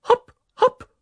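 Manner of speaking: high, loud, bouncy call; hopping cheer. Acted. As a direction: pipe it up like a sudden hop. Broom hops up in the story.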